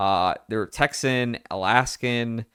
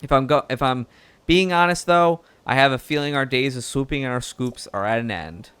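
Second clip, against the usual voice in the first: lightly southern reporter voice, easygoing; southern accent; 4 semitones higher than usual. Acted. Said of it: "now it's going really southern".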